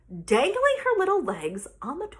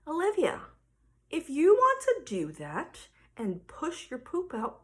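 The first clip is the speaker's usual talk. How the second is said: very calm; 2 semitones lower than usual. Retold or imitated. Mom setting terms for her daughter, very calmly. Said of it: "very calmly, I said".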